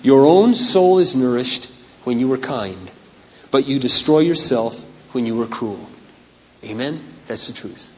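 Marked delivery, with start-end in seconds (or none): 0.0-5.8 scripture reading. Acted. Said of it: "listen, it says this".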